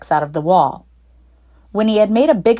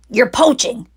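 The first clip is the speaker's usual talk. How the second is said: shrieked; 5 semitones higher than usual. Acted. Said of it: "shrieked Rat".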